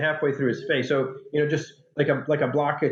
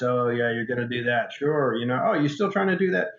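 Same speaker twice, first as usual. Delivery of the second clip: mildly mocking skeptic, rising at the end; eye-rolling doubt. People around a would-be writer, retold with dismissive doubt. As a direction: humor them with an eye-roll, lightly imitated. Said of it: "people sort of roll their eyes".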